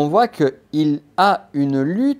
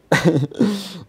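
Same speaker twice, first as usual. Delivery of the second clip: short laugh; 6 semitones higher than usual. Real, not acted. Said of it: "il y a du boulot".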